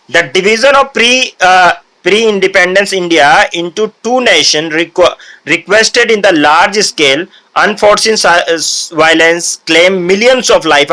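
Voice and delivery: slow, careful read-aloud of a printed passage; reading from the textbook. Acted. Teacher reads the textbook to the class, slow and deliberate. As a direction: read the book line by line, very slowly.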